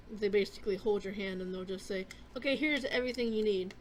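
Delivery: talking while chewing a cough drop; words round a crunchy lozenge; mouth full. Real, not acted. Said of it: "chewing on a cough drop".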